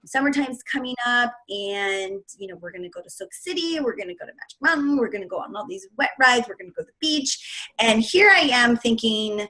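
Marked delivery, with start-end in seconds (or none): 0.1-7.7 quiet, teary voice breaking; fighting back tears as she recalls it; choked-up crying. Real, not acted. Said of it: "I get really emotional when I tell this story".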